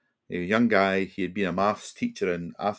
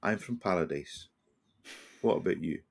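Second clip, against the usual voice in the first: calm reply; 4 dB quieter than usual. Retold or imitated. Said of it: "he just very calmly said".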